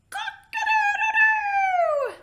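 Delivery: loud, high, drawn-out rooster crow. Acted. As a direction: crow it like a rooster waking the farm. Rooster crowing in the story.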